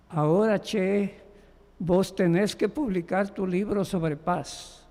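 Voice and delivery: a hint of a gentle Buenos Aires porteño lilt; soft porteño accent. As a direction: acento porteño suave, apenas insinuado. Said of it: "in his characteristic soft porteño accent".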